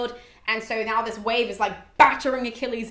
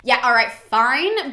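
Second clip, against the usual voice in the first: grudging Achilles; 7 dB louder, slower than usual. Retold or imitated. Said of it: "replies in the most Achilles way".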